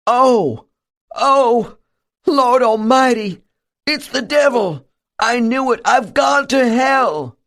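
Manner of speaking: high, shaking terror, building to a shout; a preacher sure he has landed in hell; terrified panic. A narrator's reading. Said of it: "body begins to shake uncontrollably".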